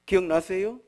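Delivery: ordinary talk, nothing marked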